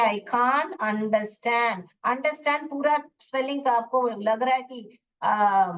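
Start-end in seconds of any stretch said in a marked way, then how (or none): 0.0-1.8 I can't understand drawn out word by word; slow dictation. Shown as a demonstration. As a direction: dictate can't very slowly for typing. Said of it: "हम cannot को contraction किया". (धीरे-धीरे बोलकर लिखवाना)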